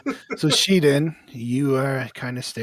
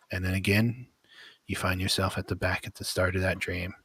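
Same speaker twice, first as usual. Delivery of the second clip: story narration. A narrator's reading. Game master describing the vision to the players, steady narration. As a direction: paint the horror evenly for the players.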